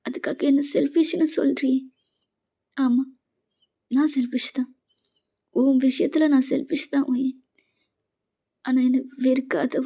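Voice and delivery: a light acted wail broken by little sobs; hammed-up weepy husband pleading; wailing plea. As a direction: beg her through mock sobs, not too heavy. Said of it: "அப்படின்னு அலறான்".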